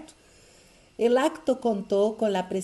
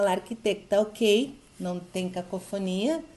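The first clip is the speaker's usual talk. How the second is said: normal talking voice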